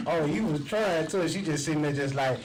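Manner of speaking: talking through a loud laugh; laughing through words. Real, not acted. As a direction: laugh while you get the words out. Laughing while describing video.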